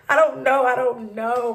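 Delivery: loud, upset repeat; frustrated outburst. Retold or imitated. Retelling how she answered her sister, loud and fed up. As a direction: blurt it out, fed up and at a loss. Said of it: "I was just so tight".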